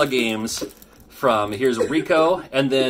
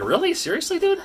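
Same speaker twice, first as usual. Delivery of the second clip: excited disbelief. Retold or imitated. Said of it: "I'm like".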